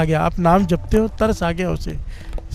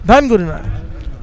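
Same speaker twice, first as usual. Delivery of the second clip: slow reverent repeat; much slower than usual. Real, not acted. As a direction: linger on each word like a prayer. Repeats the call slowly, softer.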